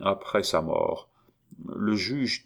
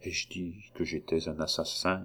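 soft, hushed question; quietly murmured, as to oneself; 8 dB quieter than usual. A narrator's reading. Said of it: "murmura-t-il".

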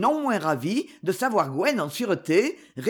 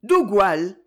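loud, anxious asking; anxious breathless question; 5 dB louder than usual. Acted. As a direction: ask with panting worry. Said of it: "sa voix haletante d'angoisse".

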